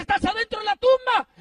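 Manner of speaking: loud, high disbelieving question; the guard can't believe what he hears; shouted incredulous guard. Retold or imitated.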